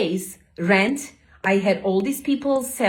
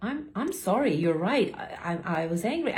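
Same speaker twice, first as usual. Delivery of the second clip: meek apology; 6 dB quieter, faster than usual. Retold or imitated. Boss apologizing, quoted softly.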